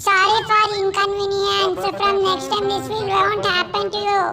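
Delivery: lightly voiced polite call centre agent. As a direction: read it like a scripted customer care sign-off. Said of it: "ಯಾವ call centre ಅಲ್ಲಿ ಕೆಲಸ ಮಾಡಿದ್ದು". (ಸ್ವಲ್ಪ call centre ಶೈಲಿಯ ವಿನಯದ ಧ್ವನಿ)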